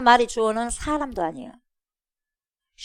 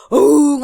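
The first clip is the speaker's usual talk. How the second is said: long, loud roar; imitated lion roar; 5 semitones higher, 11 dB louder, slower than usual. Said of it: "그 소리를 표현하는 거예요". (어흥 하고 덮치는 사자 소리)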